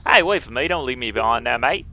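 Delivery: put-on awkward apology in English accent; hesitate, then wheedle in a mock English accent. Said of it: "I wanna do the English accent".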